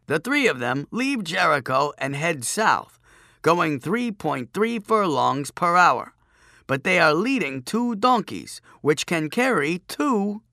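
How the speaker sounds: droning chief priest. A narrator's reading. Chief priest piling detail onto his puzzle, droning on. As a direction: drone out the details in deliberate, emphatic phrases. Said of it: "the chief priest droned on".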